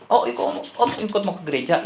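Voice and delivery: retold puzzled surprise; surprised question. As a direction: imitate a niece double-checking in surprise. Niece reacts to uncle's request.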